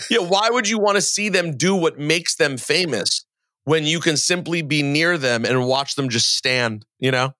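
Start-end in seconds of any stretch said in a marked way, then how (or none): 0.1-6.0 higher-pitched sarcastic questioning; mock-earnest sarcasm. Host mocking adults who gawk backstage, sarcastic. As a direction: feign bafflement, voice pitched up.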